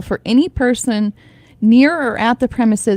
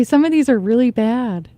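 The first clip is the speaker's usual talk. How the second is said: ordinary talk, nothing marked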